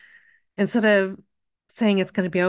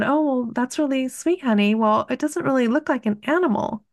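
smiling questions; 5 semitones higher than usual. Retold or imitated. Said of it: "I just smiled and asked her more questions".

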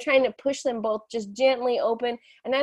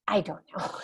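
put-on child's reply, laughing; 3 semitones lower, 5 dB quieter than usual. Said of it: "And I'm like".

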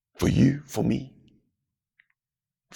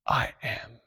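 soft answer as God; 7 dB quieter than usual. Acted.

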